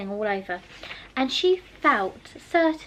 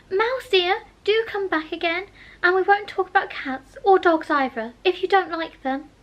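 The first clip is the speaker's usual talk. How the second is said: coaxing call; 7 semitones higher, 5 dB louder than usual. A narrator's reading. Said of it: "she called softly after it".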